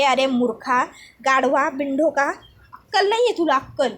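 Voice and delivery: contemptuous name-calling; insulting rant. Acted. Avani insulting Vivan on the phone, scornful. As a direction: spit out the insults.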